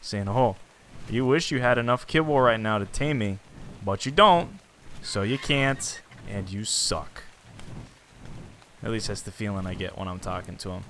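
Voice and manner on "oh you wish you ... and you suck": taunting. Retold or imitated. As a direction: tease like an unreachable prize, dropping at the end. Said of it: "have just been taunting me".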